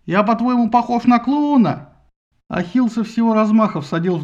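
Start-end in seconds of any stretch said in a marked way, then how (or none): 0.1-1.9 loud, slow, furious; angry yell. A narrator's reading. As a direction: hurl the insult back. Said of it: "заорал он".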